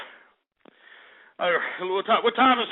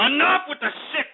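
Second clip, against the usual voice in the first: higher-pitched, fed-up scolding; exasperated outburst; 4 semitones higher than usual. Real, not acted. Host sick of prank shout-out names, exasperated outburst. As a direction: snap at them, out of patience.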